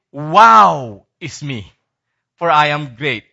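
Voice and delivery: mock arrogant bragging; arrogant boast. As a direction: lightly play the proud braggart. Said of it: "the arrogant will say".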